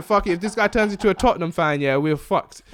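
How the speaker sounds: a hint of a panicking father; dad's inner panic. Dad fearing his son becomes a Tottenham fan, mock alarm. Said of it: "He's thinking".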